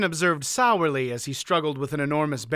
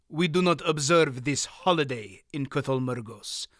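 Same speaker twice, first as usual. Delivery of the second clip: put-on cold, even, accented. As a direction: chill every word. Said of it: "the scar-faced man said coldly".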